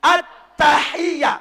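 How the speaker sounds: at-tahiyyah ending without the t sound; slow demo of the wrong at-tahiyyah; wrong pronunciation. Shown as a demonstration. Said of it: "Bukan at-tahiyya". (contoh bacaan salah)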